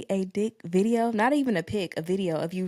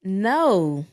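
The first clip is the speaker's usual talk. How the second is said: anger turning to laughter; 4 dB louder, slower than usual. Real, not acted. Revealing unsolicited video, then laughing.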